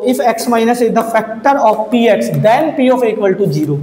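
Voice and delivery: each word spaced out for writing down; measured dictating pace; slow dictation. Shown as a demonstration. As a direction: read the theorem slowly, as if dictating. Reading the theorem statement aloud.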